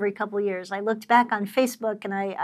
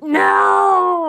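loud startled protest; shocked no; 6 semitones higher, 7 dB louder than usual. Real, not acted. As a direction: blurt out a shocked no. Wife protests expensive pen.

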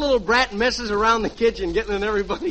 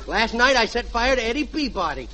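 put-on little boy. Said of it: "and I'll be the little boy".

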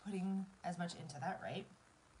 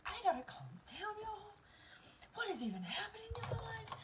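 higher, breaking as tears come; trying to steady the voice while crying; tearful, half-whispered disbelief; teary; 11 semitones higher than usual. Real, not acted. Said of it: "I need to dry out my eyes".

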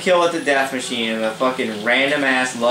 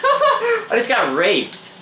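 slow words through laughter; laughing; 10 semitones higher, much slower than usual. Real, not acted. Gamer laughing at his own sudden death, through laughter. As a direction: laugh it out in disbelief.

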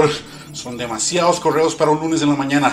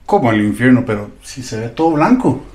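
shocked; 7 dB louder than usual. Acted. Engineer shocked at hell.

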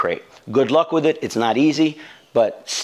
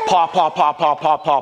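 higher, louder paw paw paw, like a puppy scratching; mimicking pawing; 4 semitones higher, 3 dB louder than usual. Trainer imitates the puppy pawing at the crate, higher and louder. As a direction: tap out the pawing with the voice.

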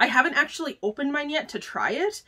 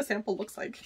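breathy whispered aside; 2 semitones lower, 9 dB quieter than usual. Real, not acted. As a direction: whisper it as if sneaking a peek. Peeks at sample, hushed aside.

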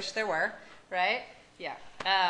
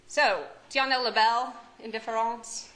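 mock French; 2 semitones higher, 4 dB louder than usual. Shown as a demonstration. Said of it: "My French is really good".

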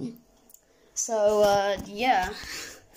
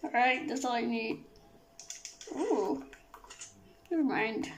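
Kermit the Frog voice. Acted. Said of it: "You are not the Kermit the Frog".

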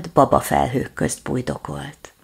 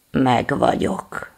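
tired; 2 semitones lower, slower than usual. Acted. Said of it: "mondta fáradtan".

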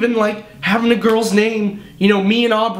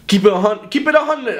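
higher-pitched, badly faked Jamaican accent; 4 semitones higher than usual. Shown as a demonstration. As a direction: attempt a Jamaican accent and botch it. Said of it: "with the Jamaican accent".

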